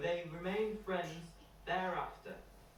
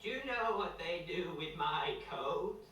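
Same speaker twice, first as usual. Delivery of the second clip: higher, slow, odd put-on voice; sheep voice; 5 semitones higher, slower than usual. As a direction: drawl it out like a dopey sheep. Sally the sheep speaks.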